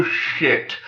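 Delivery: unvoiced, dropped-away "shit"; whispered curse. Number One realizing he is outmatched, whispered dismay. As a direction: breathe it out in dismay.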